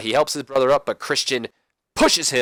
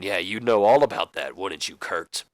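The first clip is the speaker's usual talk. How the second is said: mocking; 4 semitones lower than usual. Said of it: "McMahon just mocks him".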